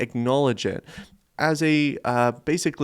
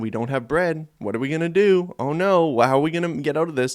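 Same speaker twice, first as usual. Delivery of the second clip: raised, mildly panicked worry; mock fretting; 5 semitones higher than usual. Disciples worrying over having no bread, mock fretting. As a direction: fret aloud, pitched up.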